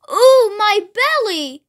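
slow storybook wail of pain. A narrator's reading. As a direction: groan it out slowly, clutching at the pain. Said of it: "he wailed".

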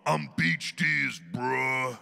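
loud, drawn-out Aussie accent; showy Australian accent, slow and loud. Shown as a demonstration. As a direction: stretch it out in a broad Australian accent. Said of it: "when I do do the Australian accent".

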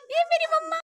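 excited intro. Real, not acted. Showing mom to camera.

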